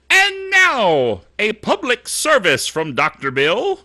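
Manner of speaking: big high announcer lead-in; mock radio announcer opening; announcer intro. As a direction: present the segment like a radio host. Introducing a segment.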